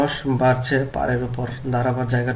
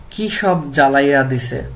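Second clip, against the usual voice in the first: Bengali village dialect, read louder as an example; regional dialect; 5 dB louder than usual. Shown as a demonstration. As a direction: present the regional Bengali dialect form clearly. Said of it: "গল্প থেকে আঞ্চলিক বাক্য দেখি".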